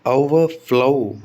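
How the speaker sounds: ओवरफ्लो very slow, with a long stressed FLOW. Shown as a demonstration. Teacher modelling a second verb, slow stress on FLOW. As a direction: draw out the फ्लो in ओवरफ्लो. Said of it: "तो फ्लो पर आएगा".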